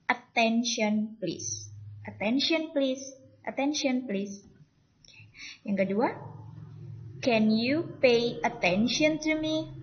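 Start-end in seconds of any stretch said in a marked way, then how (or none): 0.1-4.4 "Attention please" said slowly and distinctly; pronunciation model. Shown as a demonstration. Teacher shows students how the expression is read, slow pronunciation model. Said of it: "ungkapan ini dibacanya seperti apa". 7.2-9.7 "Can you pay attention to me?" slow, pitched high; raised tone. Shown as a demonstration. Teacher shows students the question's tune, "Can you pay attention to me?" with raised tone. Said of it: "Jadi nadanya agak naik di sini".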